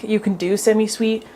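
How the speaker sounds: talking with a blocked nose; stuffy blocked nose, breathing hard. Real, not acted. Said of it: "Sorry, I can't breathe out of my nose".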